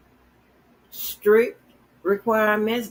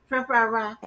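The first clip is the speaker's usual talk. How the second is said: mock Asian accent; 5 semitones higher than usual. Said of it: "You can't do Asian".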